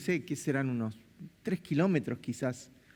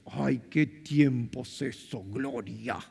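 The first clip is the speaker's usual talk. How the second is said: nostalgic sigh; 6 semitones lower, much slower than usual. Retold or imitated. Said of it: "Uno dice".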